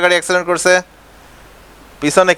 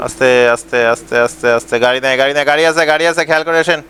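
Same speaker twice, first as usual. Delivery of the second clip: a lightly voiced bus helper, a touch lower, chanting directions; bus helper calling; 5 semitones lower than usual. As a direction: guide the bus in like a helper on the footboard.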